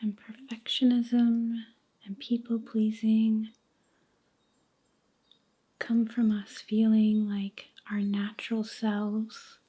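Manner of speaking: slow, hushed meditation voice with long pauses; guided meditation. Acted. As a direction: guide them gently into letting go, near a whisper, unhurried.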